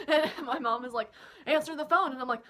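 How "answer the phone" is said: lightly voiced mom, louder and higher; urging mom. Mom tells her daughter to pick up, lightly voiced urging. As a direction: push it as an insistent order.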